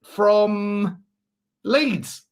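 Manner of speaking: drawn-out, high-pitched mock Leeds accent; exaggerated Leeds accent, stretching the words; Archie Gray. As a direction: put on a teenage lad from Leeds. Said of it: "that's what he probably sounds like".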